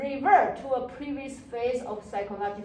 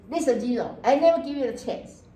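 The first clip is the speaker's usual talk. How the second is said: mock harsh teacher; 5 dB louder than usual. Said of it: "Or I say".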